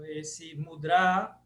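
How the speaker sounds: mudra, final A stretched slowly; mudra with long final A. Shown as a demonstration. Teacher modelling mudra for the class. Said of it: "então é mudra".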